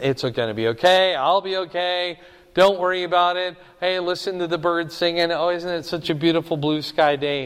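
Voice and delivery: breezy, falsely cheerful comfort; mock soothing. Shown as a demonstration. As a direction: brush it off lightly. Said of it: "He's not saying that at all".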